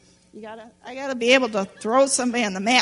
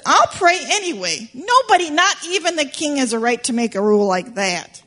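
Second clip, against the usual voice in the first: defiant Daniel; 3 semitones higher than usual. Acted. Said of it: "but he said".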